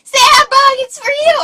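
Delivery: high, loud holler; imitated doorway shout; calling from the door. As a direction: yell through the house for someone. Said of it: "you answer the door".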